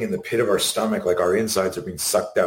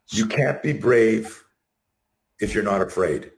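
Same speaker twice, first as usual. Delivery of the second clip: slow quote; slower than usual. Shown as a demonstration. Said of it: "here's another one that I love".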